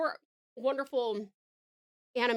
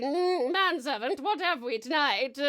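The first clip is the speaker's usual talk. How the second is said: lightly regal summons to a servant; queen grandly addressing her manservant; slightly raised, mock-royal voice; playful queen; 3 semitones higher, slower than usual. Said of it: "a meal for the queen".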